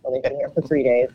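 hoarse, froggy voice from a stuffy throat; a little croaky and rough. Real, not acted. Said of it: "froggy sounding".

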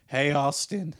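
put-on a botched, slight Australian accent; attempted thick accent. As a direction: lightly imitate a drunk Australian buddy. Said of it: "his, like, thick accent that I'm trying to do".

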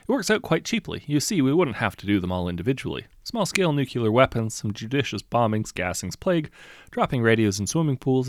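軽めのセールスマン声; salesman voice. Acted. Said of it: "he explained".

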